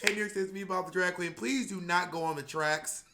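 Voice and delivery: a touch of a cheery subway announcer, addressing the riders; playful public service read, lightly voiced; announcement voice. Bob the Drag Queen reading his subway platform announcement, cheery and playful. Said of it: "I'm saying stuff like".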